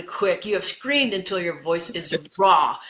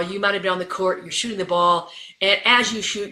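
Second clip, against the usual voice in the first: normal talking voice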